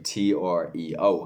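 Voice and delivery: slow letter-by-letter spelling. Retold or imitated. To his friend, slowly spelling the word letter by letter. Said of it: "And I was like".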